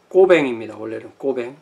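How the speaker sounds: 꼬뱅 with a tense kk and o vowel; 꼬뱅, tight onset, no l sound; original French name. Shown as a demonstration. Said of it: "원래 이름은".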